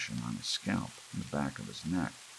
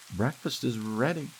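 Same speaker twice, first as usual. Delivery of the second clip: high, louder sing-song cheer; brightly; 10 semitones higher, 5 dB louder than usual. A narrator's reading. Em knocking on Gramps' door, forced cheer. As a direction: sound cheerful through the door. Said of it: "she said brightly".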